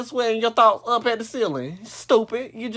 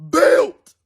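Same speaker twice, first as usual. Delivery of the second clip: drawn-out roast build-up; 4 semitones higher, slower than usual. Acted.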